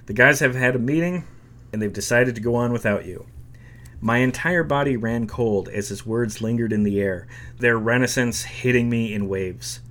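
lively book reading with quoted voices; reading a memoir aloud. Acted. Vlogger reads a musician's memoir to viewers, storytelling. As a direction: read the passage like telling the story.

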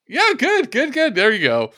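high, delighted praise; excited. Real, not acted. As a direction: cheer the guess on. Praises a close guess.

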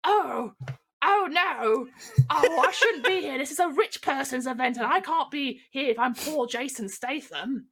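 a star spiralling into mock panic at the gossip; panicking Jason. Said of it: "and Jason's like".

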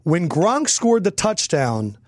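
slow, weighty storytelling; slow dramatic repeat. Real, not acted. Fan recalling when fear crept in, slow dramatic repeat. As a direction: draw out each word to build suspense.

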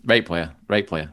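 "Right" said as "rate", Yorkshire accent; broad Yorkshire accent, "rate player". Shown as a demonstration. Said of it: "give it to me in the Yorkshire accent".

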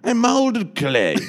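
high slow theatrical pride; impression of a singer. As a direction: savour each word like a star. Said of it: "And she goes".

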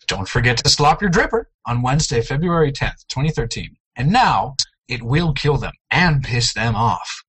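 smooth radio announcer read. Shown as a demonstration. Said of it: "As I say in my best radio voice".

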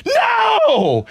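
high shocked cry of no; shocked shout. Retold or imitated. Wife hearing the news from the shower, high shocked shout. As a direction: yelp it in disbelief. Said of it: "she's like".

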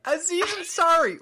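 "Aziz Ansari!" shouted high, clearly a-ZEEZ an-SAH-ree; correct pronunciation. Shown as a demonstration. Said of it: "How do you say his name?".

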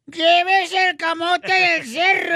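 slow drawn-out vendor shout; street vendor call. Retold or imitated. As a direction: call it like a morning street seller. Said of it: "gritos de los vendedores ... gritando".

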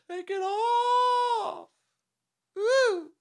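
very high, slow, loud catcall. Acted. A strange voice in the dark heckling Toad, shouting. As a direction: holler it from the back like a rowdy fan. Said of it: "A strange voice from far away said".

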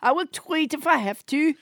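hammed-up puppet Trump voice, bossy and boastful; French Trump puppet. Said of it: "everybody's least favorite hand puppet, French Trump".

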